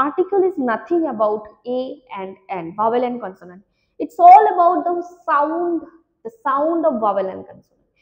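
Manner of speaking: slow, deliberate teacher's rule; slow emphatic rule. Shown as a demonstration. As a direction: spell out the rule slowly so it sticks. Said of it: "কিন্তু মনে রাখো". (শিক্ষিকার ধীর জোরালো নিয়ম বলা)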